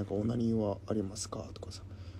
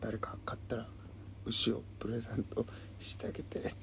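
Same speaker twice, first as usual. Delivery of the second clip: whispering; 6 dB quieter than usual. Acted. Whispered quote of a comment.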